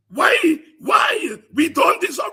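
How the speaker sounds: loud, high anguished cry of why; wailing protest. Acted. Voicing a wailing brother before the courts, loud anguished cry. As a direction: cry out the injustice. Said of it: "his brother wailing".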